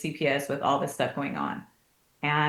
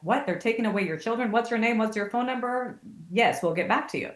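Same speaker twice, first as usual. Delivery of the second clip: alarmed dad; 5 semitones higher than usual. Retold or imitated. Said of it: "And Sean's dad was like".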